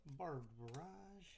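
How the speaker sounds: slow words round a bite of food; chewing while talking. Real, not acted. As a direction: talk through a mouthful, slowly. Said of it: "I'm gonna do a little bit of eating".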